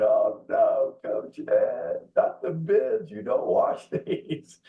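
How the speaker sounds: imitating girls' half-laughing whimper, "Coach Ed" barely voiced; hammed-up teary protest, slowing and breaking into a laugh at the end; mock crying whine. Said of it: "they were crying".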